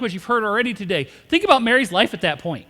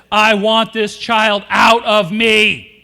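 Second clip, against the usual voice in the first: slow, drawn-out and louder, fed up; fed-up pregnant woman; 5 dB louder, much slower than usual. Retold or imitated. Pastor mimicking worn-out mothers-to-be, slow exasperated plea. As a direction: drag each word out like you're done being pregnant. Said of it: "most of the women I hear go like this".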